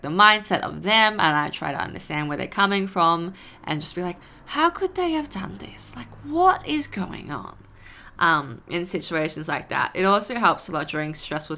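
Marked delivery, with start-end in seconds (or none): 4.5-7.6 a high, bewildered whisper; whispered puzzling. Retold or imitated. Puzzling to herself over someone's hurtful words, in a high whisper. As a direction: breathe the questions out in a whisper.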